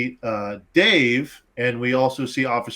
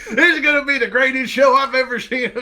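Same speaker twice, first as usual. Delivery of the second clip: put-on old redneck man; 9 semitones higher, 3 dB louder than usual. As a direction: stretch it out like an amazed old country man. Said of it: "and he goes".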